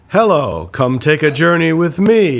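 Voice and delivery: slow, drawn-out parody of a bad read; mocking bad line reading. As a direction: overdo a stilted announcer line. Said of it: "exactly like the other guy's shitty read".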